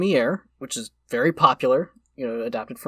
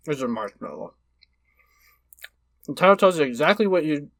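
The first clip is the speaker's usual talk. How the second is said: mouth full. Real, not acted. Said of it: "I'm gonna talk with my mouth full".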